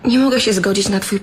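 tearful whisper. Acted. Consoling scared husband.

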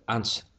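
"answer" with the stress on "an"; first-syllable stress. Shown as a demonstration. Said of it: "trọng âm rơi bấm tiết thứ nhất".

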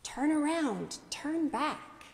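restrained imitation of a shouting parent; mock parental shout. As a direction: imitate calling after children, held back from yelling. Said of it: "shout at the top of our lungs".

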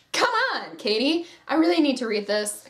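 high, pleading come on; exasperated plea. Retold or imitated. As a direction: whine at the author to hurry. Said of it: "I'm like".

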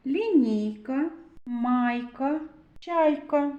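slow careful reading, each word set apart. Shown as a demonstration. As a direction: say each word so the class can hear the letter. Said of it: "Буква йод полюбляє стояти всередині слова".

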